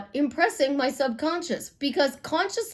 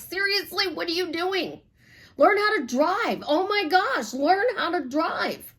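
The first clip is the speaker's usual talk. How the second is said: higher, exasperated mock yelling at maniac drivers; mock road rage, building; 5 semitones higher than usual. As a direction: pretend to lose it behind the wheel. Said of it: "our road rage gets even more".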